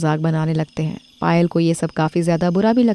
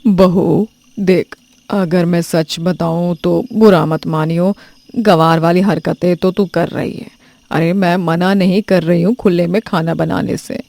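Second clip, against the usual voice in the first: lecturing mother-in-law. Acted. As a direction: set her daughter-in-law straight without anger. (बहू को धीरे और दृढ़ता से समझाती सास)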